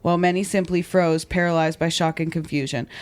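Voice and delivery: measured true-crime podcast read; narrating a crime story from a script; scripted story narration. A narrator's reading. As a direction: read the account clearly and deliberately.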